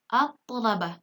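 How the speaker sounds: "at-thalabah" with a heavy doubled T; silent lam. Shown as a demonstration. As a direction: read "at-thalabah" with no L before the T. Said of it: "Lamnya tidak dibaca jelas".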